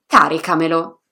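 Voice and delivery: caricamelo stressed on the first syllable, CA-ri-ca-me-lo; stress five from the end. Shown as a demonstration. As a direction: open strong on CA in caricamelo. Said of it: "sulla quintultima".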